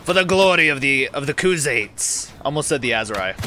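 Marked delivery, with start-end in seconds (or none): 0.0-2.3 put-on Mongolian accent. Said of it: "I keep losing my, uh, my Mongolian accent".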